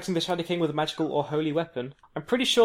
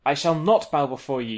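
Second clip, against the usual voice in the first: defiant scream; 7 dB louder than usual. Acted. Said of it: "you scream in defiance".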